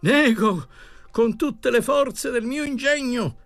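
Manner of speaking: high-pitched, insistent declaiming; impassioned, repeated cries of denial; cried out. A narrator's reading. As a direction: deny it vehemently, voice held high. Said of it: "gridò ancora".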